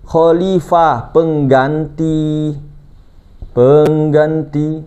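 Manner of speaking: very slow, each syllable of pengganti stretched; sermon teacher drawing out khalifah and pengganti; drawn-out teaching stress. Shown as a demonstration. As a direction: lay pengganti out slowly so it sinks in. Preacher spells out key terms.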